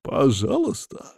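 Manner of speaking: slow, cold rising sneer on пожалуйста; angry mocking echo. A narrator's reading. Boss coldly mocking the captive's plea. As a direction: throw the word back at him with menace. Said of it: "зло переспрашивает он".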